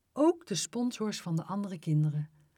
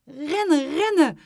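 loud, high repeated shout; raised, alarmed command; urgent calling; 9 semitones higher, 9 dB louder than usual. A narrator's reading. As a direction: keep yelling them onward. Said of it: "bleef mees Kees roepen".

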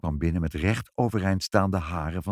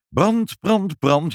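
high, loud repeated alarm shouts; fire alarm cry; 8 semitones higher, 4 dB louder, much slower than usual. A narrator's reading. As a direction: raise the alarm, word by word. (hoog en luid brand roepend)

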